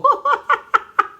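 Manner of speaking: real high-pitched laughing fit; uncontrolled burst of laughter; high helpless laughter. Real, not acted. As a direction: cackle high and loud. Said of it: "Tawang-tawa talaga ako".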